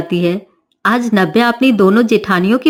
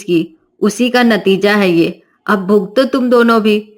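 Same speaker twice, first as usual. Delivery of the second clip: angry mother-in-law; 3 semitones lower than usual. Acted. Mother-in-law blames elder wives.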